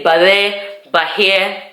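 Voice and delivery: "but there", "but here" with BY reduced to "buh"; Welsh "by there, by here". Shown as a demonstration. Showing viewers the local phrase, "but there", "but here" with a short "buh". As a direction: say "but there", "but here" as quick two-beat units. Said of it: "They say".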